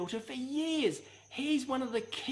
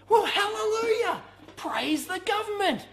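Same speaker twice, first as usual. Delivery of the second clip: sarcastic hallelujah; 8 semitones higher, 6 dB louder than usual. Pretend. Sarcastic preacher exclamation.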